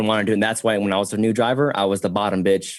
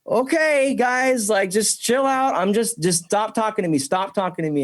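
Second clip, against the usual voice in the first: mock pleading self; 11 semitones higher than usual. His pleading reply, retold.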